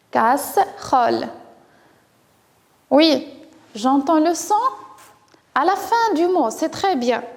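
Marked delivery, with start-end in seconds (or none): 0.1-1.3 "Casserole" in two beats, casse - role; split into syllables. Shown as a demonstration. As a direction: pause midway through "Casserole" for the listening pupils. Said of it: "Est-ce que vous entendez le son L". (« Casserole » découpé en deux syllabes)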